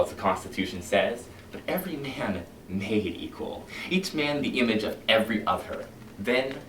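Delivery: a smooth, menacing captain talking his men round; silky, sinister fire captain addressing his firemen; Captain Beatty lecturing. Acted.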